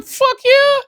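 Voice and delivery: sudden high-pitched, loud whoop of joy; excited yell. Real, not acted. Hyped about early Hoppers tickets, loud excited whoop. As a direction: blurt it out, thrilled at the tickets.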